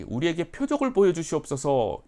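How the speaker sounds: demanding scribes. Retold or imitated. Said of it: "서기관과 바리새인들이".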